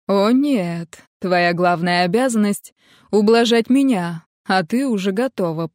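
plain reading voice

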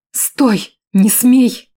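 loud desperate shout; loud frantic protest. Acted. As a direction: cry out struggling to break free. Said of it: "воскликнула я".

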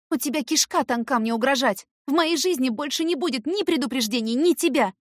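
loud, high defiant threat. A narrator's reading. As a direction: stand up to him. Heroine threatening Eric.

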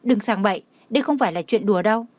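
hurried, alarmed warning, fast; a touch of fright, fast; alarmed call. Acted. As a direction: rush the words out in a mild panic. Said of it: "hoảng sợ gọi".

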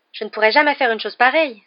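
affronted and emphatic; indignant. A narrator's reading. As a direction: protest as if offended. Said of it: "s'indigna Hermione".

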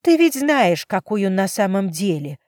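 accusing her father, voice shaking; trembling with emotion. Acted. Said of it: "Голос её дрожал от эмоций". (голос дрожит от эмоций, громко)

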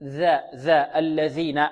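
ذ in الذين with tongue tip between the teeth. Shown as a demonstration. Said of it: "هكذا".

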